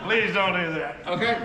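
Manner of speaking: pleading through laughter; laughing plea. Retold or imitated. Cajuns begging him to stop his French, laughing. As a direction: beg them to stop, laughing.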